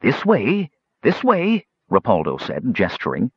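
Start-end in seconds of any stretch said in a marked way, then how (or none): 0.0-1.6 high, eager this way, this way; excited little king beckoning; eager ushering. A narrator's reading. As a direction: hurry them along, rising higher.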